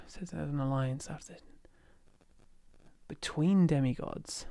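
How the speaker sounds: whispered reading. Real, not acted. Reading a comment under breath.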